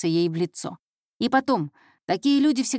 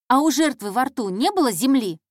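put-on higher, louder, keen girl; probing intern; 4 semitones higher, 5 dB louder than usual. Intern questioning the detective about the victim, keenly. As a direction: ask urgently after the clue.

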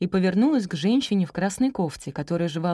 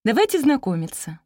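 higher, eager introduction; enthusiastic; 7 semitones higher, 4 dB louder than usual. A narrator's reading. Teacher opening her meeting with parents, enthusiastic. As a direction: lift the voice with enthusiasm. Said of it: "с воодушевлением сказала учительница".

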